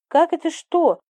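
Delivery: on the edge of tears, protesting; mother close to weeping, exclaiming; almost crying. A narrator's reading. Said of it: "едва не плача воскликнула мама".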